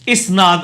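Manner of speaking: اسناد opening on short i, is-NAAD; correct vowel. Shown as a demonstration. Teacher answering which form is right, correct i vowel. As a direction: say اسناد clearly with i, never a, at the start. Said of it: "الف کے نیچے زیر ہے جی".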